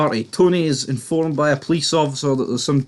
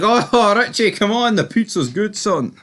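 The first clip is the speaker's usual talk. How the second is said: higher-pitched, coaxing retold plea; mock friendly pleading; 6 semitones higher, slower than usual. Cowed pizza man coaxing Richie to leave, mock pleading. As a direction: imitate someone asking nicely. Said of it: "he was asking him nicely".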